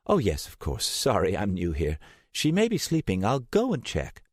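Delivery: a hint of a nervous new receptionist; new receptionist on the phone to Steiner, lightly voiced; care home receptionist. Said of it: "care home receptionist answers".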